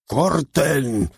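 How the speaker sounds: a high bellowed command to stop; bellowed cut. Acted. The director stopping the scene, a high bellowed cut. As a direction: yell it to halt the rehearsal. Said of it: "vociferó una voz gangosa".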